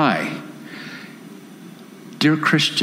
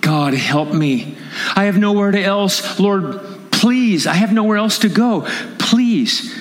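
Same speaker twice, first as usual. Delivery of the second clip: hushed plea rising to a high pleading cry; desperate prayer; 6 semitones higher than usual. Acted. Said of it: "but you on the inside say".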